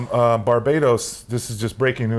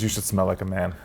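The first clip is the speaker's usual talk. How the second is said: low, quieter celebrity impression; a hint of an actor's voice; Matthew McConaughey; 4 semitones lower, 5 dB quieter than usual. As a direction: lightly imitate the actor, pitched down. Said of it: "You know what he says, Matthew McConaughey?".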